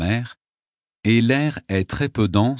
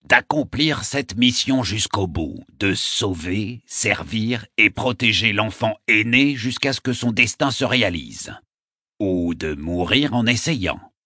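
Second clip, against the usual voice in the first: solemn. A narrator's reading. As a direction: intone it ceremonially, phrase by phrase. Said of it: "d'une voix solennelle".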